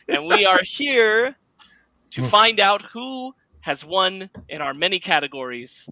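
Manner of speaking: slow showy host opener; red carpet host. Pretend. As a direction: gush like an awards host.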